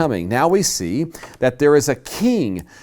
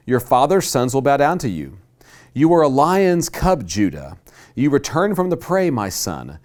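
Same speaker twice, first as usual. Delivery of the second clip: solemn scripture reading. Acted. Reads Jacob's blessing aloud.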